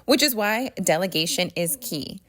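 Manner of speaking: polished, emphatic sponsor read; upbeat scripted promo delivery; podcast ad read. Acted. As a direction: sell it with punched key words. Reads a sponsor ad.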